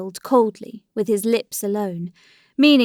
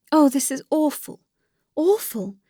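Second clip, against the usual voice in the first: high-pitched, appalled lament; dismayed; 6 semitones higher than usual. A narrator's reading. Dolly's faith in her friend totters, in high-pitched dismay. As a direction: lament it with pitch raised, not volume. Dolly shaken by Alexei's confession.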